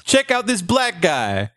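high, silly showman voice, stretching the end; mock amazed presenter. Playing Ripley's showing another exhibit, in high mock amazement.

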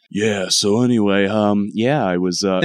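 casual, lightly put-on husky chat; laid-back, hesitant sick-voice act; sick voice wearing off. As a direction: coast along in the cool voice, unsuspecting. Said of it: "as the day goes on".

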